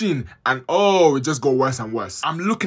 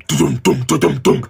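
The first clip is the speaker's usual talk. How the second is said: rhythmic, deep mock machine thuds; mimicked scanner thumps; 5 semitones lower, 4 dB louder than usual. Telling about the MRI scan, imitating the loud machine. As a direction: beat out the MRI machine's booming pulse. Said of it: "down, down noise in my head".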